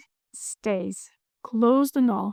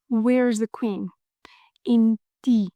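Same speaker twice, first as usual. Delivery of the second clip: slow conspiratorial whisper; slower than usual. Acted. Teacher whispers the answer to learners like a secret. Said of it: "whispered aside".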